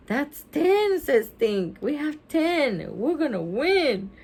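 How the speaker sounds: high-pitched, thrilled exclamation; excited kid. Acted. Stink sees they may win, excited. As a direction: count up the winnings with excitement.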